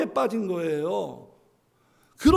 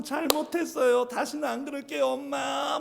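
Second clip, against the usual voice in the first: put-on apologizing child; 4 semitones higher than usual. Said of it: "일반적인 대답은".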